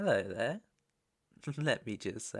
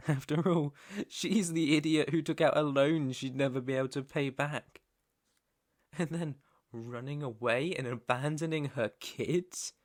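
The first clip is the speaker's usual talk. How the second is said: louder, mocking scorn; scornful; 3 semitones higher, 5 dB louder than usual. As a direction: laugh into it, then rail in contempt. Scornful rant about the mother.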